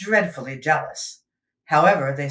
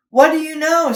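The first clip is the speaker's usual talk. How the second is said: amazed; 11 semitones higher, 8 dB louder than usual. Acted. Foreman amazed at elephant.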